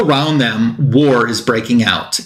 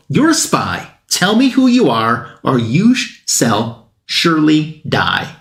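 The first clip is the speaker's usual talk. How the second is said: mock threatening accusation. Guards confronting an exposed infiltrator in a comic recap, mock threatening. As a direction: act out a suspicious guard's ultimatum, slowing on the last words.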